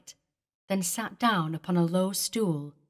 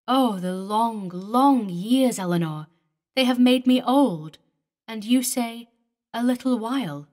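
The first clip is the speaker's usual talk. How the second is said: higher, louder lament over lost years; anguished old lover; 4 semitones higher, 6 dB louder than usual. Acted. David laments to the ghost of Eleanor, higher and louder. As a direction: cry out the long years of waiting.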